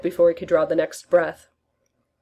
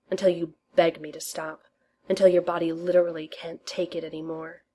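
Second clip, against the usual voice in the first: seductive whisper. Acted. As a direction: lean in and tease, ending in a whisper. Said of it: "whisper the most seductive filth".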